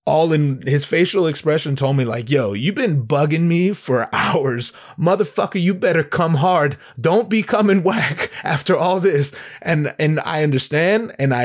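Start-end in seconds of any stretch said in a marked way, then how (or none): 2.3-9.3 mock exasperation, rising in pitch; stern warning. Promoter warns persistent rapper, mildly exasperated. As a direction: lay down a challenge, lightly acted.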